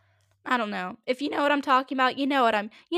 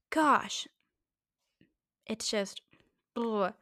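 breathy whispered gosh; much slower than usual. Real, not acted. Tired of the topic, a whispered gosh. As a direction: breathe it out under your breath.

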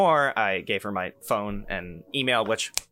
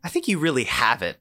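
recruiter voice; 6 semitones higher than usual. Retold or imitated. Retelling recruiter Alice's words.

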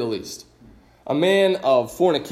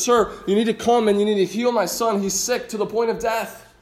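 desperate plea; 3 semitones higher than usual. Retold or imitated. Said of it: "the desperation that this man must be feeling".

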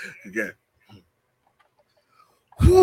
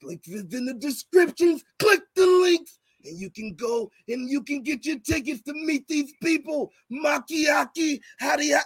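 impersonating friend's promo. Retold or imitated. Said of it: "how you do my impersonation".

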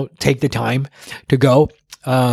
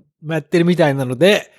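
imitating dad's formal email; 4 semitones higher, faster than usual. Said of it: "the part where he explained about the ryokan was like".

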